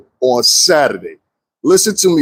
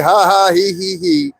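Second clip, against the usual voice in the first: spoken-out fake giggle; half-hearted mock titter, fading off; mock giggling; 2 semitones higher than usual. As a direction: imitate their giggling with deliberate ha-ha, hee-hee. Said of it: "you can be like".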